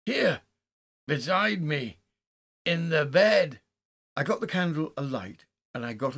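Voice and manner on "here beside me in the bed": loud, high cries of terror; sharp scream. A narrator's reading. Haldane finding something beside him in bed, screaming in terror. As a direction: cry out each phrase in horror. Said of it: "he screamed sharply".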